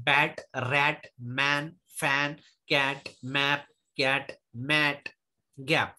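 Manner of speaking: slow word list, बैट, रैट, मैन with an open "ai" as in bat; ऐ vowel demo. Shown as a demonstration. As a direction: pronounce बैट, रैट, मैन slowly with the short English a. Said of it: "ए स्वर का ऐ से उच्चार".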